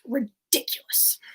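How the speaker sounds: imitated disdain on a film quote; disdainful. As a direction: sneer the word, half-successful villain impression. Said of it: "can't quite do it with as much disdain".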